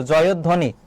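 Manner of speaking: জয়ধ্বনি said carefully as joyod-dhoni; careful pronunciation. Shown as a demonstration. Teacher showing students an important pronunciation, carefully pronounced. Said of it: "এর উচ্চারণটা গুরুত্বপূর্ণ কিন্তু".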